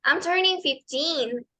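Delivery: slow, even "I'm turning fifteen"; a teen's slow answer. Retold or imitated. Teacher voices a quinceañera's answer, slow and careful. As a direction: say it slowly, teen drawn out. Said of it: "en inglés, ella va a decir".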